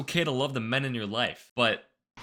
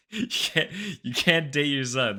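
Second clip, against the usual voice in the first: laughing through the words; uncomfortable laughing. Real, not acted. Host scolding a mom for dating her son, laughing uncomfortably. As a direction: break into an awkward, incredulous laugh. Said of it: "I don't know why I'm laughing".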